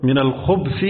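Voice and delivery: الخبث as khubthi, no vowel on the b; sukun on the ba. Shown as a demonstration. Teacher repeats the correct common narration, الخبث as khubthi with sukun. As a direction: say الخبث with b running straight into th, khubthi. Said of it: "هي في السكون".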